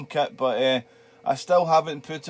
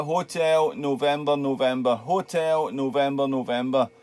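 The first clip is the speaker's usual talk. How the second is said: spelling it out for clarity. Shown as a demonstration. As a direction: repeat the call sign slowly for a listener who missed it. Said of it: "What was the rest of it".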